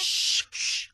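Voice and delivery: sharp hiss to hush her; shushing. Acted. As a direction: shut the little sister up fast. Brother hushes sister. (تسكيت بصوت شش)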